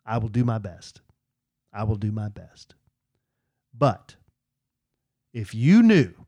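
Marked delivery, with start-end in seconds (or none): 0.1-1.0 quietly resigned; meek soft promise. Retold or imitated. Promising fans, soft and meek. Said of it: "I'm like". 1.7-2.8 hushed unvoiced whisper. Repeating the promise to fans in a whisper. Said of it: "I'm like".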